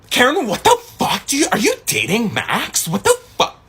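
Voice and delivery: high-pitched mock screech; imitated outraged screaming. Girlfriend confronting a rival over Max, mock screaming. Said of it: "Screaming, right?".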